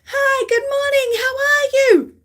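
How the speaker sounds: high, bright-pitched cheery hello; high sing-song greeting to a stranger; friend's chirpy greeting. Retold or imitated. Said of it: "my friend Jen will be like".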